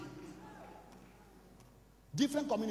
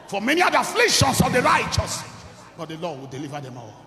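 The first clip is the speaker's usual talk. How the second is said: proclaiming verse; 3 semitones lower, 8 dB louder than usual. Acted.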